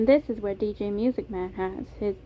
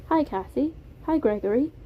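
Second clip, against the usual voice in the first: put-on friendly British-accented greeting, higher; Beam, British accent; 5 semitones higher than usual. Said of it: "It was a soft British accent".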